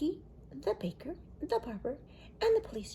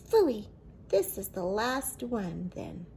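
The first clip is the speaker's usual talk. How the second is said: grumpy phooey; 5 dB louder than usual. Acted. Grandpa grumbling.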